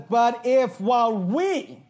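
slow, drawn-out sarcastic quote. Retold or imitated. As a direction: stretch it out with mock doubt. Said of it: "notice again the sarcasm".

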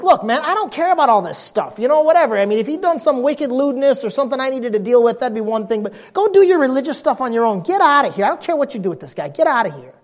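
acting out an official who can't be bothered; dismissive official. Gallio waves off Paul's religious accusers, dismissive and fed up. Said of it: "his attitude was like".

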